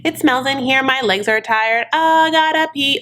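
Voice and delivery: high, slow, moaning complaints; whiny Stephanie. Retold or imitated. Stephanie whining at the taxi driver, high and slow. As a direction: whine every little ailment like a spoiled passenger. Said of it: "conversation that taxi driver had to put up with, with Stephanie in the car".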